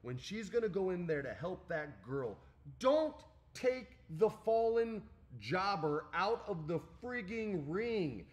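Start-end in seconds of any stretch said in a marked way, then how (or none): 2.8-8.2 loud, high, each word punched; exasperated emphasis. Real, not acted. Wrestling fan berating bookers over the jobber, loud and emphatic. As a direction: hammer it out slowly in real frustration. Rants about the booking mistake.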